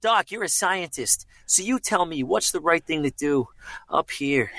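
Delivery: put-on slightly older film-hero voice; an older take on the young hero; Michael J. Fox. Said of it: "like he was a little older".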